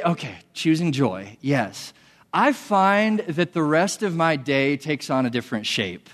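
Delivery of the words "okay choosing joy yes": willing agreement. Retold or imitated. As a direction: accept it gently and honestly. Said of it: "when I say".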